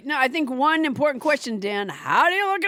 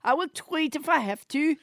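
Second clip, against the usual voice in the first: French Trump voice. Acted. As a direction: keep the French Trump puppet going. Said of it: "French Trump".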